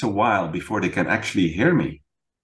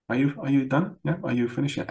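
higher, mock-impatient are you done; 5 semitones higher, 4 dB quieter than usual. Husband imitating himself cutting his wife off, impatient. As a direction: rush her along, barely waiting. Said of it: "I would go like".

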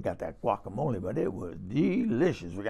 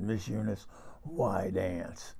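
mock whisper; 5 semitones lower, 9 dB quieter, slower than usual. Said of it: "he whispered in my ear".

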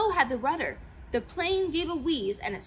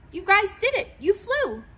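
high, loud proud cheer; proud praise; 7 semitones higher, 6 dB louder than usual. A narrator's reading. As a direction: celebrate them. Len praising his friends.

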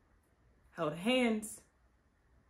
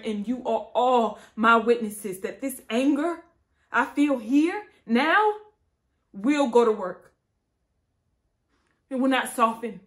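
tragic heroine sorrow; 3 semitones higher, 6 dB louder than usual. Acted. Vow building to a shout.

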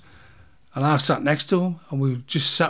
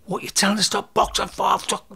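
higher-pitched aggrieved rant, re-enacted; pissed-off protest; 6 semitones higher than usual. Boxer ranting at the referee who stopped him, pissed off. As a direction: argue back in exasperation, pitch up. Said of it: "this time I'm pissed off".

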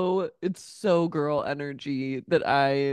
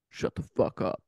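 harsh barking commands; 8 semitones lower than usual. Retold or imitated. Penny snapping at girls.

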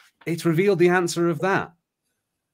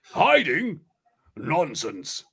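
indignant exclamation; 2 semitones higher, much slower than usual. A narrator's reading. Tarlene denies hiding from the sorceress, mild exclamation. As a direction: exclaim it, mildly put out. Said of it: "Tarlene exclaims".

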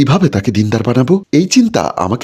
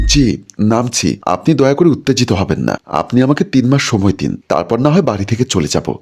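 calm. Acted. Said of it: "শান্তভাবে বললাম".

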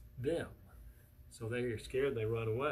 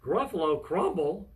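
loud storybook exclamation; shocked repeat; 2 semitones higher, 7 dB louder than usual. Acted. Gruffalo hears he is the meal, shocked. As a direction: exclaim it aghast.

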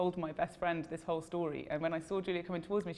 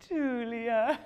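louder, rising cry of the name; eager call; 5 semitones higher, 5 dB louder than usual. Retold or imitated. To Julia at the end of the audition, an eager rising call. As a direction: call her name as you lunge in. Lunging for another hug.

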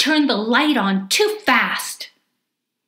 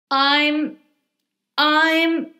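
put-on high, halting, exasperated child; slow, strained build into grrr; frustrated growl; 8 semitones higher, 3 dB louder, much slower than usual. A narrator's reading. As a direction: stammer higher and build to a long growl. Child stuck, bursting with frustration.

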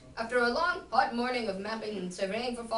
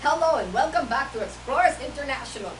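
put-on louder, muddled Indian-Russian accent; botched Indian accent, Russian-sounding; Indian accent gone Russian; 7 dB louder than usual. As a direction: attempt an Indian accent that slips toward Russian. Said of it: "I sound like a Russian".

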